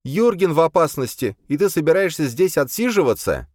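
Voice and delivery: put-on high, impatient young woman's voice; an exasperated girl pushing to leave; Boya, impatient. Boya impatient with the others, high and pushy.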